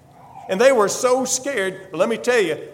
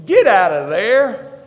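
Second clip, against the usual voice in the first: commanding call; 7 dB louder, slower than usual. Acted. Jesus commands the dead man.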